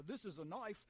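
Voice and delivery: lightly imitated Australian accent. Preacher playing at being Crocodile Dundee, Australian accent. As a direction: quote the movie line in mock Australian. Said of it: "maybe it was Crocodile Dundee".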